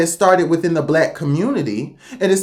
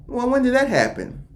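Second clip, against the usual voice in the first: high, imitated bystander's question; mock puzzlement; 5 semitones higher, 3 dB quieter than usual. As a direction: ask it high, as an imagined puzzled onlooker. Imagined puzzled onlookers quoted.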